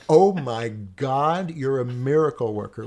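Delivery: loud, drawn-out mock awe, slow on "Oh my God"; student's loud, slow, hammed-up amazement; mock amazed. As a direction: ham up a kid stunned by a miracle. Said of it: "he looked at it and thought".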